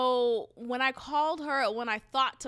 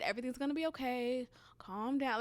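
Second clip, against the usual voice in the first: softly reassuring; quiet, soothing, settle her down; calm reassurance; 5 dB quieter, faster than usual. Retold or imitated. Cousin on the phone calming her, soft and reassuring. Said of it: "she literally spoke to me so calm".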